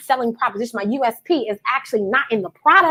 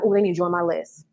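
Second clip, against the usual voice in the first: lower, softer, flat aside; muttered thought; 5 semitones lower, 4 dB quieter than usual. Shown as a demonstration. Coach showing a timid inner thought, lower and softer. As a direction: mumble it to yourself. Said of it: "I'm like".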